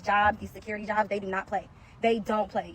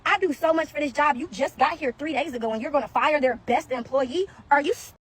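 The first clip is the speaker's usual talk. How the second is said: retold angry protest; 3 semitones higher than usual. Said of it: "I cussed that man out".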